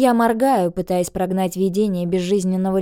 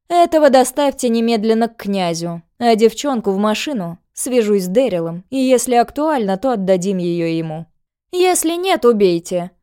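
commanding villainess; 3 semitones higher, 4 dB louder than usual. Acted. Villainess gives orders.

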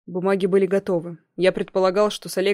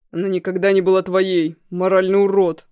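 louder furious shout into phone; 5 dB louder than usual. Acted. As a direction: yell the insult down the line. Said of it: "крикнул я в трубку".

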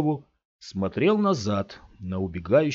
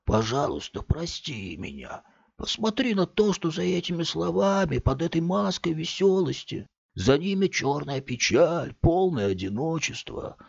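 higher, tearful self-pity; whiny lament; 6 semitones higher than usual. A narrator's reading. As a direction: wallow in loneliness. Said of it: "плаксивым голосом".

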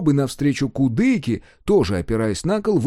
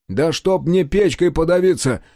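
louder, heated swearing; heated oath; 5 semitones higher, 5 dB louder than usual. Acted. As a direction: swear it hotly, stung by doubt. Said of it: "поклялся в запальчивости Кудыка".

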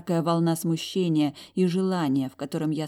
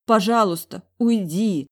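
pleading, near tears, a touch louder; mild tearful begging; tearful plea; 4 semitones higher, 6 dB louder than usual. Acted. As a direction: beg him to leave with a trembling voice. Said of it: "Мой голос дрожал от подступающих слёз".

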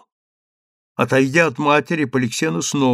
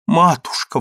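sharp louder cry of Матушка; exclaiming; 5 semitones higher, 5 dB louder than usual. Acted. Daughter cries out to her mother, loud exclamation. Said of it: "воскликнула девушка".

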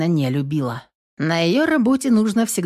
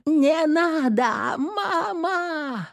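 slow, much higher, desperate wail; terrified scream; 11 semitones higher, much slower than usual. A narrator's reading. Falling girl crying out to her mother, terrified. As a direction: plead in terror while falling. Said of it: "душераздирающий вопль".

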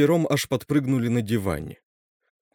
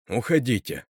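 calm. Acted. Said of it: "спокойно сказал он".

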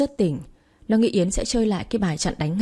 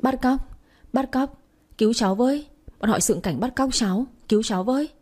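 higher-pitched plea at narrator's volume; mock cry for help; 4 semitones higher than usual. Girl faking a kidnap alarm to passers-by, mock cry for help. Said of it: "Nó vội la toáng lên".

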